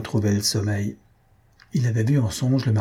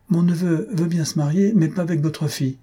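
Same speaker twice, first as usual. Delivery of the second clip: higher-pitched, incredulous recital of a reply; indignant mock quote; 5 semitones higher than usual. Aunt imagining telling the parents of the refusal, indignant. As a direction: quote it as something absurd to say.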